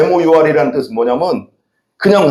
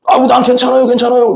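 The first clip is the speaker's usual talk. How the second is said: higher, sighing dismissal of the doctor; foolish patient denial; 8 semitones higher than usual. Retold or imitated. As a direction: act a fool who brushes off treatment. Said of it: "이게 바보지". (높은 목소리로 괜찮다고 우기는 환자 흉내)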